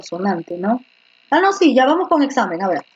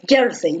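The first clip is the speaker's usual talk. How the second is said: jersey with jer raised; stress on JER; 6 semitones lower than usual. Shown as a demonstration. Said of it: "levantando la yer". (levantando la yer en jersey)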